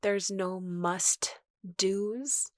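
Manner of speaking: usual speaking voice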